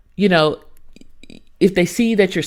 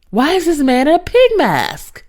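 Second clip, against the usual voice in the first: baffled outcry; 9 semitones higher, 3 dB louder than usual. Retold or imitated. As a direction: squeal it in disbelief. Bewildered reaction to pig mask.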